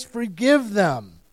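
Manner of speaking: mock yell of forgiveness, stretched. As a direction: call it out loud and slow from the cross. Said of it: "And he yells".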